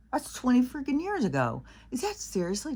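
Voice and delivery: real laughing amazement at how time flies; laughing in disbelief. Real, not acted. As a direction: let the laugh break in as it sinks in. Realizing how long ago.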